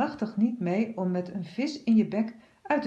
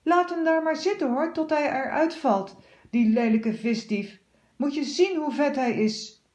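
high, louder scornful scold; indignant cleaner; 6 semitones higher, 3 dB louder than usual. A narrator's reading. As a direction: spit out her contempt. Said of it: "roept de werkster". (hoog, luid scheldende werkster)

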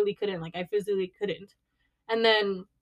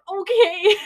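loud, high, laughing agreement; laughing okay; 10 semitones higher, 9 dB louder than usual. Retold or imitated. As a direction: say okay cracking up. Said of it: "And I'm like".

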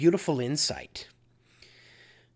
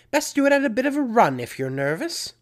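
quick, high, loud mock British; terrible British accent; 8 semitones higher, 5 dB louder, faster than usual. Preacher finishing Missus Weasley's advice, in a bad British accent. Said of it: "Pardon my terrible British accent".

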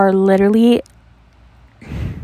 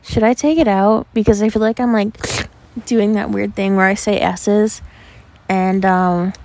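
wearing a retainer. Real, not acted. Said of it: "oh my god, I have my retainer in".

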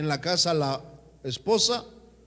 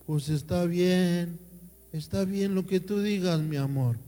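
meek husband; 3 semitones higher than usual. Retold or imitated. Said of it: "El marido se queda así".

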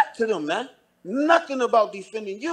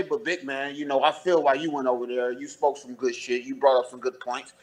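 soft mocking voice; 7 semitones lower, 3 dB quieter than usual. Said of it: "It ain't like you was gonna say".

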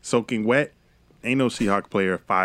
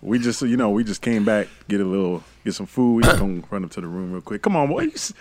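football player voice; 4 dB louder than usual. Acted. Player talking his way past.

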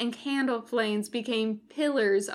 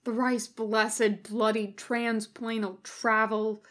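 mild groan. Acted. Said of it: "he groaned".

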